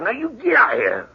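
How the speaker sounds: high, hard command; ordering out. Acted. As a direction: throw him out of the house. Ordering him out with gun.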